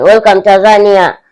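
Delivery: lightly hammed-up welcome for a visiting tourist; mock tourist greeter. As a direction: greet him like a tour guide, teasing. Mocking ref as welcomed tourist.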